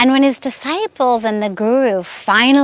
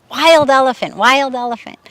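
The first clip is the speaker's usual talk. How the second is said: raised warning call, loud; crowd shout; 3 semitones higher, 3 dB louder than usual. Retold or imitated. Villagers warning of the wild elephant, shouting. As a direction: call out the danger across the street. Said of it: "they hear this big shout".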